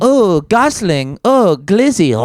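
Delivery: high, slow, far-off moan; moaning hologram voice. Pretend. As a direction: moan the names slowly.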